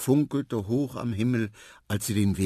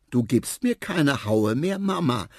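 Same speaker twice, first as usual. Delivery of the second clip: lightly voiced child, higher at the end; earnest elephant child; 5 semitones higher, 5 dB louder than usual. A narrator's reading. Little elephant to his mother, lightly childlike earnest voice. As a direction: tell mother firmly, a bit childlike.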